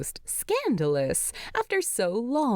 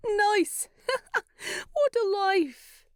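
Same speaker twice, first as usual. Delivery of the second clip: put-on higher, laughing young dwarf; grinning, amused; 13 semitones higher than usual. A narrator's reading. Fili to Bilbo about sleepy bees, higher and amused. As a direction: say it through a grin. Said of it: "Fili grins".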